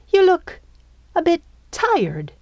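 high-pitched, halting show of concern. A narrator's reading. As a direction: sound worried for them, pitched well up. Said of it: "her tone concerned".

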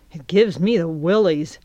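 ordinary delivery, nothing marked

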